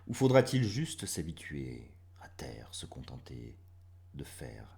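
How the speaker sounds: grave, measured verse reading; poetry read with fading line endings; poem recitation. Acted. Reads second poem.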